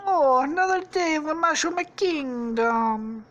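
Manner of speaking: high, loud cartoon wake-up voice; sing-song it brightly as a game hero; Mario. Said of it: "wakes up and he's like".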